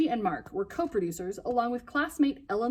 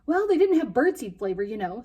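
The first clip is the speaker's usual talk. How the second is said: defensive; 2 semitones higher, 5 dB louder than usual. Acted. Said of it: "said Ellen Louise defensively".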